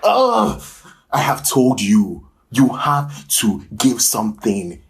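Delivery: loud, exasperated lecture; a fed-up director berating his actor, loudly; scolding director. Acted. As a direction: drag out the reprimand, slow and loud.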